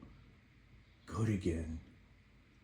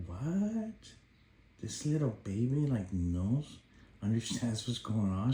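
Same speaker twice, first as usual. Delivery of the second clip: amazed disbelief; 2 semitones higher than usual. Retold or imitated. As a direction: marvel at her. Amazed at baby.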